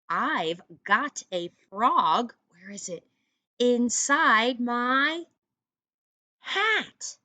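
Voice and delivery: slow, deliberate poem reading; slow read-aloud. Shown as a demonstration. Teacher reading the poem aloud to her students. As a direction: read each line slowly for the kids. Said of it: "I know you can read this one".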